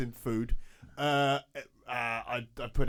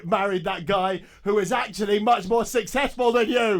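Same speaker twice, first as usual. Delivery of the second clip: shouted bitter punchline; mock shout; 4 semitones higher, 4 dB louder than usual. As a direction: yell it out in fake bitterness. Lasagna rant peaks in shout.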